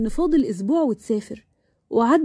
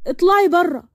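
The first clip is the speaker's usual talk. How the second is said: higher, insistent acted outburst; angry order; 5 semitones higher than usual. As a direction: throw her out with rising force. Marwan ordering Sara out.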